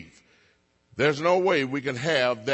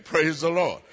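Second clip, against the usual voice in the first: normal talking voice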